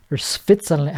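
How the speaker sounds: badly faked Swiss accent on "Switzerland"; half-hearted Swiss accent, w turning to f; attempted Swiss accent. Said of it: "I don't know how they st-, how they talk".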